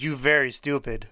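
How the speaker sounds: lightly put-on, bad Russian accent; a hint of a robotic Russian teddy bear, in a bad Russian accent. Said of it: "That's my bad Russian accent".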